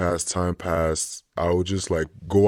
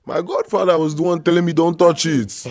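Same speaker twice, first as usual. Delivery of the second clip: laughing; 11 semitones higher, 8 dB louder than usual. Retold or imitated. Godfather quoted laughing.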